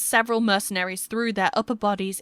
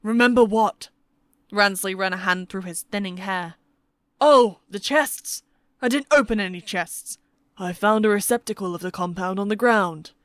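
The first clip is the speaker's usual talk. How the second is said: a hint of a blustering, forgetful old schemer; forgetful old father; 3 dB louder than usual. Ransley excusing himself to his son, lightly voiced old man.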